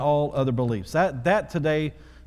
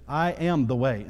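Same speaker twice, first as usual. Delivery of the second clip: weight on am, said firmly; emphatic quote. Acted. Pastor quoting Jesus to the congregation, emphatic. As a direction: land "I am the way" as final truth.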